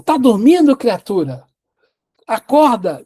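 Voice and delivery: loud, sharp scolding of a dozing servant; angry wake-up yell. Retold or imitated. Roman officer yells at the daydreaming servant girl, loud and angry. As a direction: bark it at her like an angry master. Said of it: "ele fala assim".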